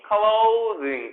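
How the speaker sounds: clothing stretched out in two parts; slow breakdown. Shown as a demonstration. Teacher breaks the word down for students, slowly. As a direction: draw out each syllable of clothing.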